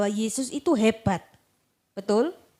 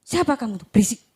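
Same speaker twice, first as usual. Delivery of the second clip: dismissive rebuke; 6 dB louder than usual. Acted. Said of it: "seringkali kita seperti itu".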